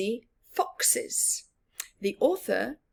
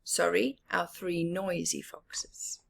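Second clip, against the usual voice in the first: soft unvoiced aside; whispered aside; 5 semitones lower, 6 dB quieter than usual. Whispered correction.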